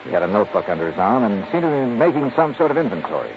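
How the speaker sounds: measured narrator voice of a radio detective; hard-boiled detective narrating; story narration. A narrator's reading. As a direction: set the scene as a calm storyteller.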